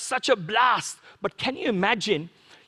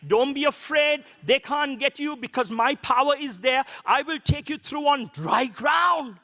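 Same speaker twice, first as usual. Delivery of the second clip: rising preached shout; 3 semitones higher than usual. Acted. God voiced reassuring Moses.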